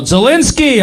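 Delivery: retold yell. Guy yells out at comedian in an Uber, mock yell. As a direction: imitate a stranger calling out, not at full volume. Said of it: "a guy yells out".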